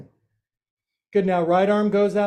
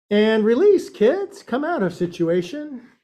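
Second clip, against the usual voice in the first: called-out release; 4 semitones higher, 3 dB louder than usual. Real, not acted. Yoga teacher calls her class out of the pose, bright and loud. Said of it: "yoga teacher calling release".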